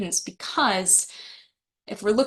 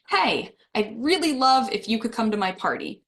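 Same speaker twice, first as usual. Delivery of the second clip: reluctant invitation; 2 semitones higher than usual. Shown as a demonstration. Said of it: "how I stress that word have".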